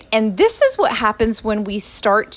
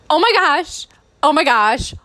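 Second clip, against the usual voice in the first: thrilled squeal; 6 semitones higher than usual. Retold or imitated. Mom agrees to babysit.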